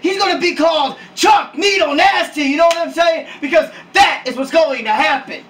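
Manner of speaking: hyped-up promo delivery, building in force; excited, emphatic bragging that climbs; too loud. Acted. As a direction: talk up the new star emphatically. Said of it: "You're being too loud".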